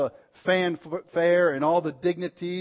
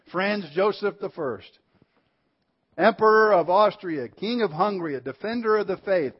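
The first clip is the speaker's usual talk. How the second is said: grand, announcing each title, slightly raised; ceremonial proclamation; 4 semitones higher than usual. Retold or imitated. Procession leader announces the emperor's titles, ceremonial herald style. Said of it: "began to read off all the ornate and elaborate titles".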